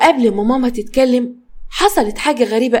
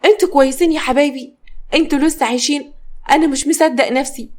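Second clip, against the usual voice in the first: smiling relief; 3 semitones higher than usual. Acted. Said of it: "ابتسم وقال".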